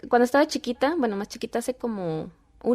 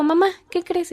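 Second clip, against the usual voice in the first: put-on high, louder little-girl announcement; excited child; 8 semitones higher, 5 dB louder than usual. Daughter has news for mom, excited.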